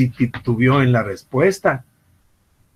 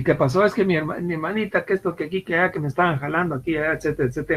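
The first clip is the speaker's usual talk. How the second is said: put-on child's excuse; 3 semitones higher, much faster than usual. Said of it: "entra la muchacha y dice".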